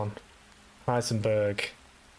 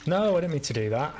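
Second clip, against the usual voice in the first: exasperated; 5 semitones higher, 4 dB louder, faster than usual. Real, not acted. Mistake in game.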